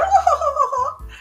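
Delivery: high, drawn-out mocking laugh; hammed-up mean-girl laugh, held long. Interviewer laughs at her own dig about jail, mocking.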